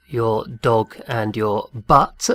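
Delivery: "dog" and "but" drawn out slowly; teacher savoring a cheeky pun; slow, deliberate contrast. Shown as a demonstration. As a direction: spell out the difference word by word. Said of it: "very important to tell the difference".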